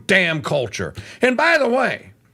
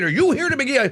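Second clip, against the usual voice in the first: ordinary talk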